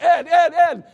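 loud, high calls of a name; urgent calling out. Retold or imitated. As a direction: call him sharply to snap out. Dad calling panicking brother.

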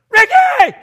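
high, piercing mock scream of a name; wife's scream. Wife screaming for husband after seeing rat, screamed. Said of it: "She screamed".

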